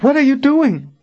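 high-pitched, appalled question; crying out. A narrator's reading. Verna confronts the two traitors, crying out. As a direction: demand an answer in shock. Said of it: "Verna cried out".

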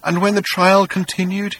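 high, voiced tearful delivery; acted weeping, pitched high; weeping whisper. A narrator's reading. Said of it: "he said in a weeping whisper".

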